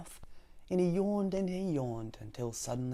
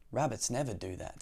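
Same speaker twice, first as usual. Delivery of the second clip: sleepy rabbit; 5 semitones lower than usual. Acted. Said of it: "said the sleepy little rabbit".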